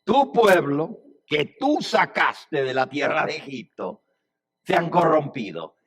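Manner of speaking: forceful accusation, "Tu" and "tú" punched; God accusing. Acted. God disowning the people to Moses, accusing. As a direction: hit "Tu pueblo" and "tú" hard. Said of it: "Dios le había dicho".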